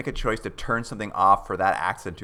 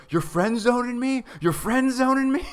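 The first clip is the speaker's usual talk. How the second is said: much higher, mock-outraged incel voice; full incel; 3 dB louder than usual. Bill to Doctor Smith on being rejected, high mock incel outrage. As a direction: play it like an indignant incel who can't believe it. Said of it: "he goes full incel".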